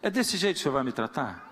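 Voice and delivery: blunt honest prayer building to exasperation; frank complaining prayer. Shown as a demonstration. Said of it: "por que você não fala com Deus assim".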